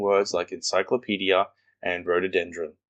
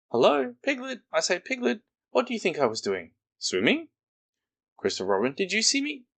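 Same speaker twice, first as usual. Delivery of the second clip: much higher, excited squeaky Roo; bubbling over with pride, squeaking; proud little Roo, squeaking with glee; 12 semitones higher than usual. Acted. Roo's voice in story.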